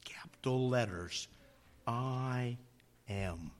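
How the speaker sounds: hushed whisper on the name. Shown as a demonstration. Preacher to congregation, whispering the name. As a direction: drop to a breathy hush for emphasis.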